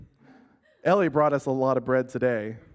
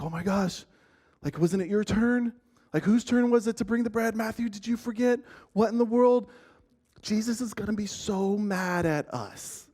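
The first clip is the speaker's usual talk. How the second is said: panicky disciples; 5 semitones higher than usual. Retold or imitated. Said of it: "and were saying something like".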